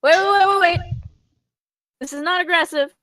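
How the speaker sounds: panicked. Acted. Panicked explaining to guard.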